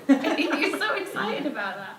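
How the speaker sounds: laughing while talking. Real, not acted. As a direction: say it through a laugh.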